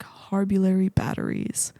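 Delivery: slow whispered Drax impression; imitating Drax in a slow whisper; Drax quote. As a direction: breathe out the wrong name, slow and hushed. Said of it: "And Drax is like".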